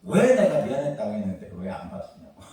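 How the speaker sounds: half-laughing mock blow-up at wife; mock outburst. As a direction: imitate flaring up, laughing through it. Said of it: "내가 또 버럭 화를 냅니다". (아내에게 웃으며 흉내 내는 버럭)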